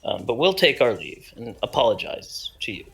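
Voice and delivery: bowing out politely; in-character apology. Acted.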